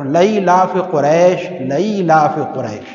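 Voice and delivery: slow recital with "لئی لاف" starting "la-ee" instead of "li-ee"; imitated wrong recitation. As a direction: mimic a man confidently misreciting "لئی لاف". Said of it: "ایک صاحب سنا رہے ہیں". ("لئی لاف" غلط تلفظ کی نقل، ٹھہر ٹھہر کر)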